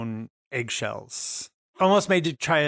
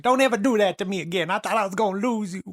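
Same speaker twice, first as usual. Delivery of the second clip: fast, higher, acted upset outburst; Gemma, relieved scolding; 6 semitones higher, faster than usual. Hugging the one feared lost, acted distressed scolding. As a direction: rush it out as an emotional reproach.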